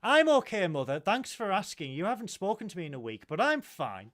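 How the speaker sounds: mock hurt. Mock hurt reply to mother.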